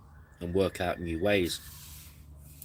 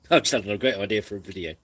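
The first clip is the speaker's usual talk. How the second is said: excited to a friend; 4 dB louder, faster than usual. Retold or imitated. Telling James the idea.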